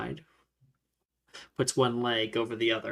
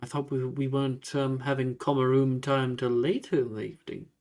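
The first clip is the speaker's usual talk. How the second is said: lightly voiced, courteous gentleman with swooping pitch; lightly played old-world host, drawing out the greetings; courteous ghostly gentleman. Ghost greeting two students at his door, courteous.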